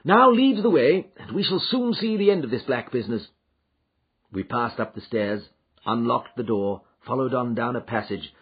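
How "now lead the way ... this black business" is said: Holmes, keen and commanding, higher and louder; an eager, commanding Holmes; eager detective. Acted. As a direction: urge them on to the chase. Holmes urging them on.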